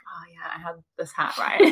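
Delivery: soft whispered imitation of him; whispered impression. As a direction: whisper it like he did. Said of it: "He was like".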